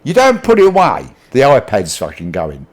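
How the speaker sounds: imitating a parent losing patience; mock angry parent threat. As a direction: bark it like a fed-up parent. Parent threatening to take iPad.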